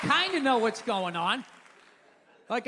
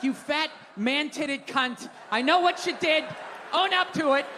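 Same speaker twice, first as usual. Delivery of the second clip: mock angry yell. Angry accusation at pizza thief.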